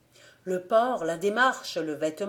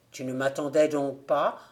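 a lightly lowered, hollow voice from the grave; hollow ghost voice; 4 semitones lower than usual. Acted. The dead friend greets the gravedigger in a lightly hollow voice. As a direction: speak like a dead man come back, lightly done. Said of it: "une voix qu'il reconnut aussitôt malgré son ton caverneux".

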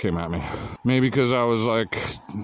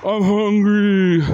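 hammed-up drunk whine, high and loud; drunk person; 11 semitones higher, 8 dB louder, much slower than usual. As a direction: drag it out like a hungry drunk. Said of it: "It may have been a drunk person".

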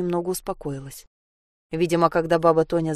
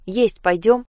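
put-on girl repeating the supper call to the boy, louder; 3 semitones higher, 5 dB louder, slower than usual. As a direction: raise the voice and ask again, louder. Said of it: "повторила она громче".

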